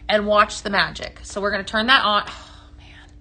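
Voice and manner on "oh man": breathy whisper of amazement; whispered awe. Real, not acted. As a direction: whisper it like you're seeing magic. Quiet awe at glowing diffuser.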